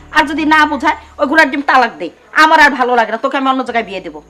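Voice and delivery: fed-up ultimatum. Acted. Mother telling her daughter to divorce him, exasperated. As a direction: lay it down loudly, out of patience.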